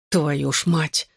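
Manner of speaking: ordinary delivery, nothing marked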